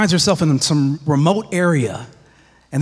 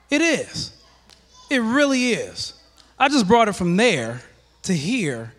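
out of breath; 6 semitones higher than usual. Real, not acted. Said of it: "I'm out of breath".

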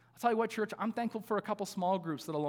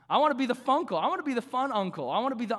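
a big, loud, eager declaration; bursting to be the fun uncle; excited; 6 semitones higher, 5 dB louder, faster than usual. Shown as a demonstration. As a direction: proclaim it like a kid on a sugar rush. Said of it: "It means a fun uncle".

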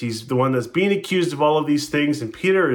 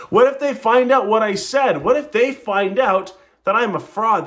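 anxious shame; 7 semitones higher than usual. Acted. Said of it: "Second thing he's feeling is shame".

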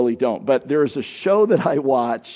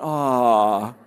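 mock crowd aww; 5 semitones lower than usual. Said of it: "everybody went".

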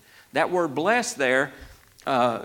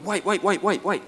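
higher, repeated stop-everything interjection; sudden realization; 5 semitones higher than usual. Acted. Preacher plays a reader spotting a link, suddenly struck. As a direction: act out catching a connection mid-read, voice jumping up.

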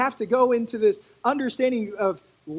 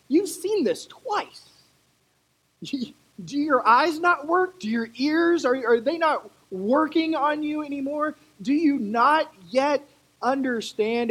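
a lightly voiced, bewildered Jesus rising higher; exasperated Jesus; 5 semitones higher than usual. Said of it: "he's like".

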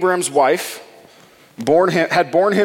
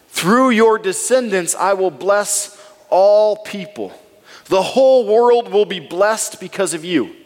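solemn voice of God; 4 semitones higher than usual. Acted. God's promise to Abram.

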